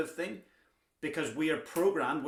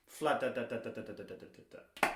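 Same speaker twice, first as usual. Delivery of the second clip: same soft fla da da da for the left hand, a touch quieter; vocalized drum rhythm; 3 semitones lower, 3 dB quieter than usual. Shown as a demonstration. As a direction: scat the sticking evenly with no accent. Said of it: "Let's do it in the left hand".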